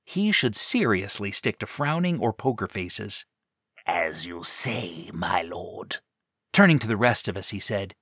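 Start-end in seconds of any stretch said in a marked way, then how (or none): 3.9-6.0 slow, hushed whisper. Acted. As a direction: breathe it out softly. Character answers quietly.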